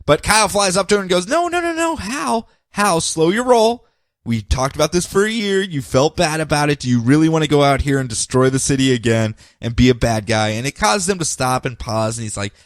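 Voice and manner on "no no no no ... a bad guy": a light hint of a pleading hero; pleading friend. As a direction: talk a friend down gently. Kyle pleading with Hal.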